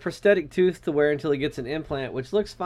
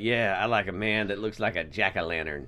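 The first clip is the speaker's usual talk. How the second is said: lower, quiet sultry purr; 11 semitones lower, 7 dB quieter than usual. Retold or imitated. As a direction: breathe it like a flirt. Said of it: "They're like".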